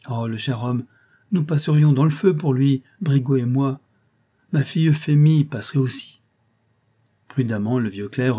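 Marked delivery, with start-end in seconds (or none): 0.1-6.2 lightly voiced plump concierge, higher and protesting; indignant concierge. Concierge protests to the old clerk, mildly shocked. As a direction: protest your innocence like a flustered doorkeeper.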